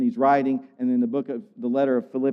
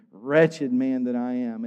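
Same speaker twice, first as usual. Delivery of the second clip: slow, understated lament; resigned conclusion; slower than usual. Acted. Preacher voices Paul's conclusion on the law, resigned lament. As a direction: draw it out slowly, mildly resigned. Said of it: "I come to this conclusion".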